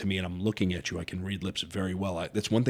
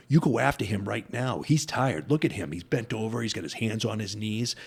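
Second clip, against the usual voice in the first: lightly raised, pressing pep talk; imitating urgent coach; 3 semitones higher than usual. Coach points fighter at tired opponent, urgent. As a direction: imitate a cornerman urging his fighter on.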